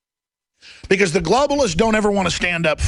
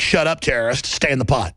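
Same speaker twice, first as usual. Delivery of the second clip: low captor order; 6 semitones lower than usual. Acted. Voices captors ordering him.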